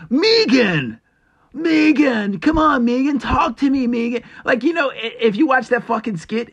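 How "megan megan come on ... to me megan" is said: high, loud whiny pleading of a name; Key and Peele sketch. Retold or imitated. Imitating the Key and Peele boyfriend pleading with Megan, high and whiny. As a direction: beg her to talk, hammed up. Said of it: "fucking Keenan and Peele? He's like".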